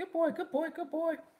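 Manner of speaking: very high-pitched, excited voice. Demonstrating praising a dog during a training exercise, high-pitched voice. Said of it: "with a high pitched voice".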